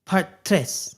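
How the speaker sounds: French pronunciation of tres; French accent. Acted. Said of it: "Trying to speak French here".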